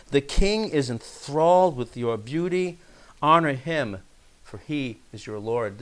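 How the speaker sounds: measured, solemn Bible reading; scripture reading. Acted. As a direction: read the psalm out to the congregation. Reads the psalm aloud.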